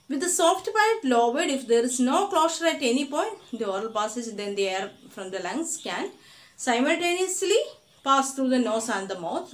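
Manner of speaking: very slow, word-by-word dictation for notes; slow textbook dictation. Shown as a demonstration. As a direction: read the definition out so students can write it down.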